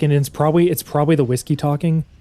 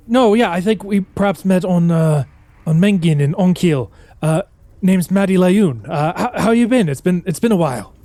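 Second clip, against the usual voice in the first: a lightly raised, hurried dwarf voice; a shifty stowaway bluffing, slightly higher; nervous stowaway; 4 semitones higher, 3 dB louder than usual. Acted. Stowaway dwarf bluffing his way past Faunnelin, lightly nervous voice.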